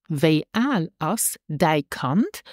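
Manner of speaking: slow model phrase. Shown as a demonstration. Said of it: "How old is your child".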